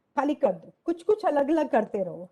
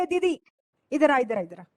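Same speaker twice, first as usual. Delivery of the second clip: rude calling; faster than usual. Retold or imitated. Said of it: "बहुत बार क्या बोलते हैं".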